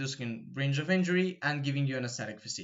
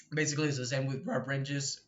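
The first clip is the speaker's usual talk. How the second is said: voice crack. Real, not acted. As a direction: voice cracking on "rep". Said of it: "the voice crack".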